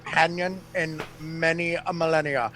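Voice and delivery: low, hushed confidential plea; Sergio. Acted. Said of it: "you see Sergio's face pop out".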